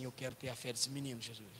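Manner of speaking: low, soft plea to Jesus; acted private murmur of longing; humbled quiet prayer. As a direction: pray it under your voice, moved. Father murmurs prayer leaving room, retold.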